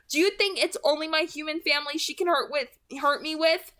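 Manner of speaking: high, loud pleading; desperate Bella. Acted. Girl pleading with her friend, high and loud. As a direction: voice of a girl begging in panic.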